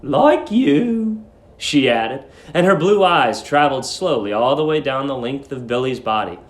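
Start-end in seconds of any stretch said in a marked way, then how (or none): 0.0-1.2 put-on high, sweet old landlady. A narrator's reading. Old landlady cooing at young guest Billy, high and sweet. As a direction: coo it like a doting landlady.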